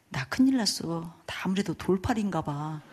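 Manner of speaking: soft, slowed mock dejection; quietly deflated, lightly acted; dejected. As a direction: imitate a husband who has lost heart. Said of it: "장로님이 기가 죽으셨어요".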